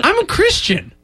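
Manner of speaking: high, mock-tearful protest; hammed-up wounded plea; Shia LaBeouf. Arrested man pleading his faith, high overacted whimper. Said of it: "this entire thing as Shia LaBeouf".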